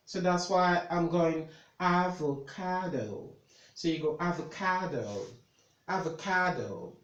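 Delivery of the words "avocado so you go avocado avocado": "avocado" with stress on CA, a-vo-CA-do; stress shown. Shown as a demonstration. Tutor explaining why she's going avocado, stressed pronunciation. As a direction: model "avocado", leaning on the third syllable. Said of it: "So you have a stress here".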